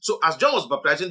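normal talking voice

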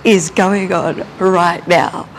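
slow, emphatic retold exasperation; mock outrage, punched first word; internal tantrum. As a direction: draw out each word in disbelief. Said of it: "full-blown having this internal tantrum".

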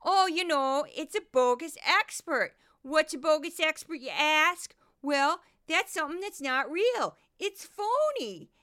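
high, loud hammed-up Midwestern accent; goofy Midwestern accent. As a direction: play a phony Midwestern expert in a put-on accent. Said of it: "this is my, uh, Midwestern accent".

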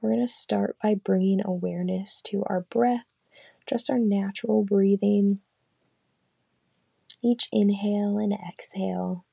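calm, unhurried meditation guide; guided meditation. Acted. Leading listeners through a body scan, calm guided meditation. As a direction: lead them gently through the body scan, leaving long pauses.

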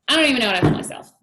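hammed-up fed-up venting, breaking into laughter; mock overwhelmed. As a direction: pile up complaints in playful exasperation. Acts out past overwhelmed frustration.

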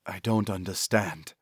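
soft, hushed and bewildered; barely above a breath, lost; whispered. A narrator's reading. Zana to her cousin after bad news, whispered. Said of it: "Zana whispered".

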